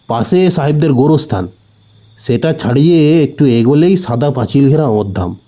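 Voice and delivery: a hint of a rustic shopkeeper giving directions; village grocer, lightly voiced. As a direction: explain the way plainly, like a local.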